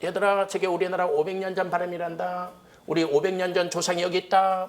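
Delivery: a proud teacher presenting a living relic; professor again. Retold or imitated. Professor showing off the Korean student to his class, delighted. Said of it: "그렇게 하더래".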